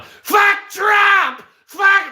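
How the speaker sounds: very high screeched outburst; mock unhinged screaming. Imagining himself accosting someone in a hat, mock screaming. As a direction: shriek it like a pretend psycho. Hypothetical psycho yelling at hat wearer.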